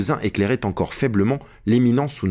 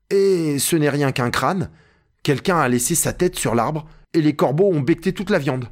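higher-pitched, lightly voiced servant; Jupiter, reassured climber; 5 semitones higher than usual. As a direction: report the find from up the tree, pitched up. Narrator voices Jupiter describing skull. (Jupiter, voix légèrement jouée, plus aiguë)

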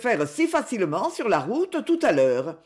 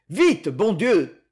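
impatient angry order; 4 dB louder, much slower than usual. Acted. Man hurries her angrily.

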